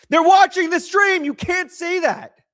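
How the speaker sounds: high-pitched, drawn-out yell of protest; alarmed scolding shout. Real, not acted. Streamer scolds chat while sponsors watch the stream, alarmed shout. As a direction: shout it high in panicked disbelief, stretching the words.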